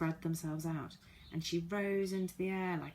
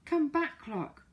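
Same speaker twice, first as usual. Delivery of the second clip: high loud call across the sand; urgent high shout toward the sea; 10 semitones higher, 5 dB louder, slower than usual. Acted. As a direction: call the clock back from the waves. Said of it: "called Silky".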